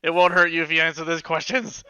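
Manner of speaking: gently acted promise to a captive; lightly put-on adventurer voice; lightly voiced interrogator. Player voices Rook questioning the kobold.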